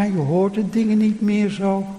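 usual speaking voice

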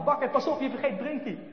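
calling out a warning. Acted. Warning the baker who drives off.

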